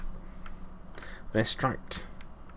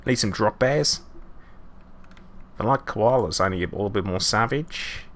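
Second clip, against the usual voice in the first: mock Australian accent. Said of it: "let's stop murdering that accent".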